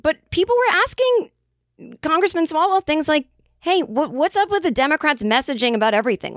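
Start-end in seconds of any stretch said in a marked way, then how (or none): 3.6-6.3 mildly frustrated questioner, higher pitch; retold frustration, not yelling. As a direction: imitate a voter pressing for answers. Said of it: "they were like, "We're frustrated".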